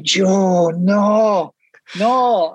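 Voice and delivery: rising alarm, begging him to stop; panicked pleading. Retold or imitated. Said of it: "And I was like".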